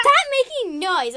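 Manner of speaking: high, loud playful scolding; mock annoyed complaint. Jay Feather trying to nap, mock annoyed yell. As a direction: call out in pretend irritation. Napping cat tells others off.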